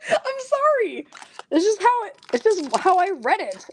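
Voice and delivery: very high, squealed apology through laughter; helpless laughter. Real, not acted. Host apologizing for a misreading, helplessly laughing. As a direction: apologize while really cracking up. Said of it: "I really can't stop laughing".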